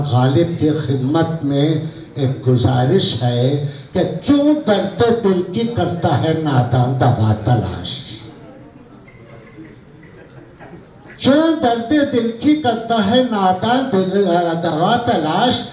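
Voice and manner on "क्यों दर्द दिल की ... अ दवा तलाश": couplet recitation. Acted. Poet makes a request to Ghalib, measured recitation. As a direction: recite it as a formal mushaira couplet.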